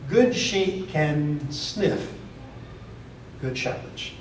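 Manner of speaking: slow words, fading to an unvoiced whisper on "good shepherds"; hushed aside. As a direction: let it sink to a whisper. Preacher drops to a hush.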